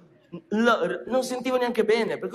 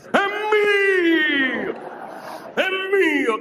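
high shout; 11 semitones higher, much slower than usual. Shown as a demonstration. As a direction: shout it, claiming it. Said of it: "No, tu devi dire". (grido acuto)

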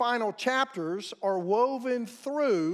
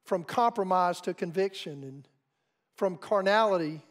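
prayer. Acted.

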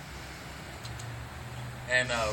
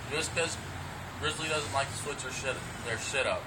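talking around a dip in the lip; lip full of dip. Real, not acted. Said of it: "so I already got my dip in".

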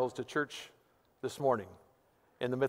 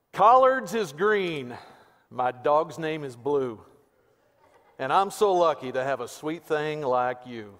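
slow redneck Texas drawl; Pastor Weaver's Texas accent; 4 dB louder than usual. Acted. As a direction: recite it in a hammed-up, drawn-out Texas accent. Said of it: "This is in my best Pastor Weaver, Texas accent voice".

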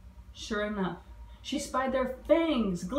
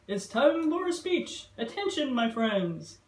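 screech. Acted. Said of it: "he said with a screech".

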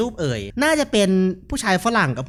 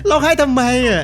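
laughing while dubbing; 8 semitones higher, 7 dB louder than usual. Acted. Dubbing crying ghost child's line.

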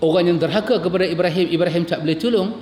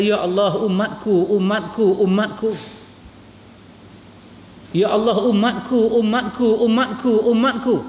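imploring call that climbs higher with each umatku; a preacher voicing the Prophet's mounting, near-tearful plea; rising plea; 5 semitones higher than usual. Preacher voicing the Prophet begging God for his people, rising plea.

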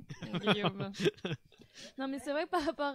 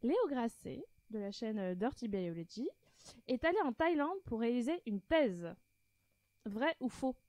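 quiz-host voice. Pretend. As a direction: pose it like a game host. Hosts quiz, reading first statement.

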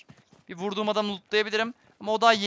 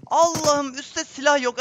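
higher, louder, slower wail; real despairing wail; despairing cry; 7 semitones higher, 5 dB louder, slower than usual. Real, not acted. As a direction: wail at the bad luck. No weapon found, despair.

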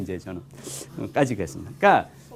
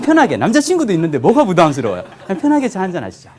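brightly raised, quick and easy; casual pitch, a touch higher and quicker; breezy, casual; 4 semitones higher, 4 dB louder than usual. Shown as a demonstration. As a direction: toss it off lightly and fast.

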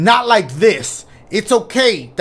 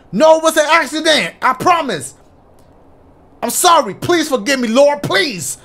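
pleading; 8 semitones higher, 3 dB louder than usual. Acted. Voicing game character's desperate plea.

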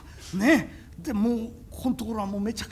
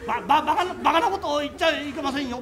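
nervous laughing denial; 3 semitones higher, 5 dB louder than usual. Acted. Scared stammering denial.

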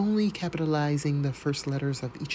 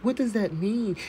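incredulous; 6 semitones higher than usual. Real, not acted. Confused by the document.

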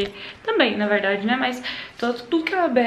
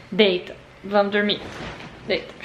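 put-on baby talk; 3 semitones lower, 4 dB louder, slower than usual. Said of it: "Igual fala pro netinho".

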